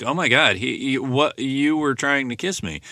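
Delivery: high, shocked and bewildered; shocked disbelief. Retold or imitated. Nadine to Mike, appalled he tried to kiss her. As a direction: recoil as if it's unthinkable. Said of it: "she's making these gestures like".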